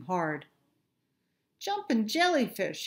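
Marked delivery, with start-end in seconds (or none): 1.6-2.9 high squeaky fish exclamation; a small fish's dismayed cry, lightly done; mild groan. Acted. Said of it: "he cried".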